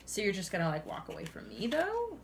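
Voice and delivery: standing your ground. Acted. Reader voices Pisces confronting a departing partner, challenging. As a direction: push back with a sharply rising final word. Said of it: "you're kind of standing your ground".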